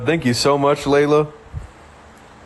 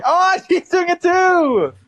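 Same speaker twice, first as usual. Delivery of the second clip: laughing; 11 semitones higher, slower than usual. Real, not acted. Delighted at viewer.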